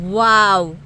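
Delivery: loud amazed exclamation; amazed wow. Real, not acted. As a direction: react to the stunning view. Seeing the lake view.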